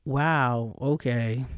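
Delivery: clipped sarcastic wow okay; attitude tone. Shown as a demonstration. Showing how her tone gets read as attitude, sarcastic. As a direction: let it drip with attitude. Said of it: "If I change my tone to".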